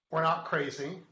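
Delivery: we're NOT crazy, with the word not leaned on; stress on not. Shown as a demonstration. Host telling viewers they're NOT crazy, stress on not. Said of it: "Emphasis on the not".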